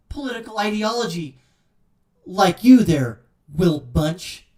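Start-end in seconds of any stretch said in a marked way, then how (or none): 2.2-4.5 louder, a mocking yell at the columnist; angry shout. Real, not acted. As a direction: throw his name out in a scornful shout. Ranting at the columnist.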